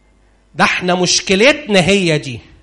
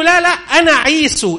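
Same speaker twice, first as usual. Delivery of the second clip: high, quick protest; hasty denial; 10 semitones higher than usual. Acted. Son to suspicious father, protesting high. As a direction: jump in high to deny it. Jacob hastily denying.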